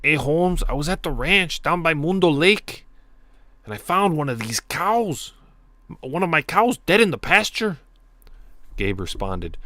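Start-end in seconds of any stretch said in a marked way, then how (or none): 0.0-7.8 loud, high, exaggerated Mexican cholo accent; over-the-top cholo-style Mexican accent. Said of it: "should I be saying this in a Mexican, Mexican ac-, accent?".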